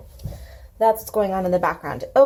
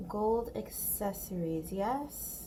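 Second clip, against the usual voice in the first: much softer, half to herself; quiet murmur; 8 dB quieter than usual. Real, not acted. Muttering to herself while painting gold, much softer. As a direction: murmur while working close to the page.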